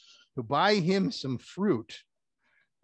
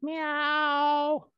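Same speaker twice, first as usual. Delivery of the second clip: high cat meow; 12 semitones higher than usual. Acted. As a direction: answer like a stubborn kitten. Cat puppet refuses.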